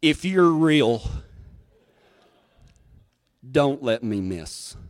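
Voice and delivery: desperate prayer. Retold or imitated. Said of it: "I've never prayed so hard in my life".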